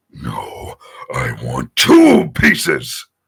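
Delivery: loud, very slow, booming, rough robot voice. Showing how the actor's voice sounds after robot filtering: Megatron robot voice. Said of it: "sounds like".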